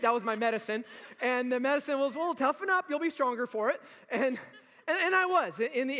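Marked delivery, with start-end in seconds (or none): 2.1-3.8 dismissive adult. Retold or imitated. Eighties adult brushing kid off.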